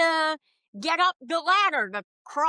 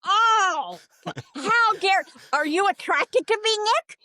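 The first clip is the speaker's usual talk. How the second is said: mock indignant outburst; 3 semitones higher than usual. Mock indignant demand at cohost.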